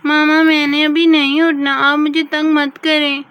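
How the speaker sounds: put-on child whining loudly at mama; loud bratty refusal; loud protest. Daughter to mama, refusing to get up, loud whine.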